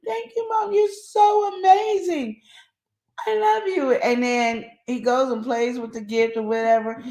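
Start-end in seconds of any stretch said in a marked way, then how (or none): 0.1-3.9 put-on high, excited child's voice, half shouted; thrilled little boy. Son thanking his mom for a gift, high excited child voice. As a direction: squeal it like a delighted little boy. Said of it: "And they give you the best hug ever".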